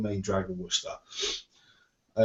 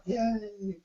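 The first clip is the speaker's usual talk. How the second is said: mock cheer; 12 semitones higher, 3 dB quieter than usual. Cheering about shared birthday.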